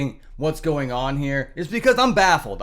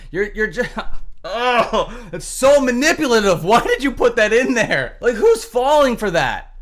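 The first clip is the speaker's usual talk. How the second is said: laughing disbelief; 5 semitones higher, 4 dB louder than usual. Real, not acted.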